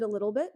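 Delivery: "a little bit" lifting slightly at the end; rise at the end. Real, not acted. Explaining her English-sounding accent to listeners, "bit" going up at the end. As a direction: let "bit" tip upward like a question. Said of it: "I went up on the end".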